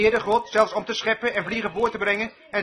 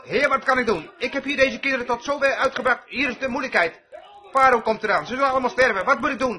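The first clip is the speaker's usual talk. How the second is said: higher-pitched, mildly panicked appeal; imitated anxious plea; 4 semitones higher than usual. Moses to the Lord with the children in danger, imitated anxious high pleading.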